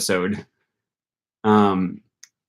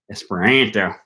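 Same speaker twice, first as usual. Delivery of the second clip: Esperanto with a flat Wisconsin a, "Esper-AN-to"; Wisconsin accent. Real, not acted. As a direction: let the Wisconsin accent slip into "Esperanto", front nasal a as in "man". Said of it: "That was my Wisconsin accent coming out".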